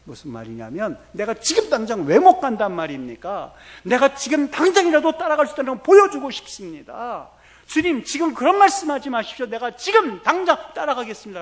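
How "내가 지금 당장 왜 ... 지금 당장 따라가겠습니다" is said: high, loud, eager protest, pitched well up; excited Peter. Retold or imitated. Preacher voicing Peter insisting to Jesus, excited and loud. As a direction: burst out like impulsive Peter insisting. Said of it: "막 흥분하고 있는 모습을".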